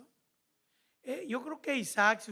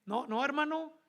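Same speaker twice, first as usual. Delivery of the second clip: emphatic preaching; 3 semitones higher, 5 dB louder than usual. Real, not acted. Preacher rebukes congregation.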